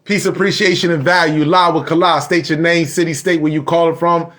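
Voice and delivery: lightly voiced radio host greeting; show host opening. Host greeting callers live on his show, lightly announcer-like.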